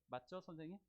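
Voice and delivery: ordinary talk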